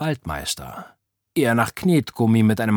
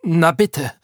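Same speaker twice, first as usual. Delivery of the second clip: higher, reproachful exclamation; I-told-you-so; 7 semitones higher, 4 dB louder than usual. A narrator's reading. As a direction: throw it out as a vindicated complaint. Fred says I told you so. (vorwurfsvoll und rechthaberisch)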